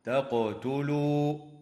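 تقتلوا with the qaf bounced with a small echo, said slowly; slow demo of echoing qaf; qalqala on qaf. Shown as a demonstration. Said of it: "تقلقل القاف".

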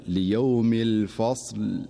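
الفصل with a silent ص, recited slowly; correct stop. Shown as a demonstration. Teacher repeating the correct recitation of الفصل. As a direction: stop on الفصل without moving the ص. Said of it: "فيقول".

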